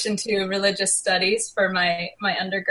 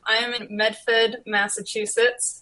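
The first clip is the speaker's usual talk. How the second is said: put-on Boston accent. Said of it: "Said it with my Boston accent I'm working on".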